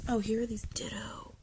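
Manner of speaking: hushed whisper of discovery. Real, not acted. Collector whispering as she finds the Ditto cards. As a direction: whisper it as a small find.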